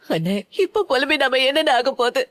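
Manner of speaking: tearful plea broken by sobs; crying. Acted. Sister crying to her brother about her daughter, tearful. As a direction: sob the question.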